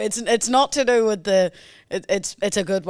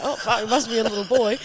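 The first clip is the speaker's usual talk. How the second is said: laughing mock coo; faster than usual. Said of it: "copied him and be like".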